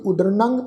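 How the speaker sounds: ਉਦਰਨੰਗ ending in a nasal ng. Shown as a demonstration. Teacher explaining the tippi mark, ਉਦਰਨੰਗ with a nasalised final syllable. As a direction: let the end of ਉਦਰਨੰਗ ring through the nose. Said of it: "ਇਸ ਦਾ ਉਚਾਰਨ ਹੋਏਗਾ ਨਾਸਕੀ".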